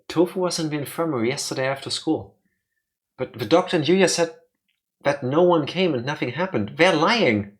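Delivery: lightly voiced earnest schoolkid. Voicing another game character, reporting events.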